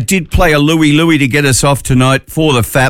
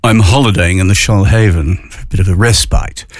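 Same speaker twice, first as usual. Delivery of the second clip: clearer repeat; 5 semitones lower than usual. Shown as a demonstration. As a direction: repeat it, taking your time over "Shoalhaven". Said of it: "I'll, I'll say it again".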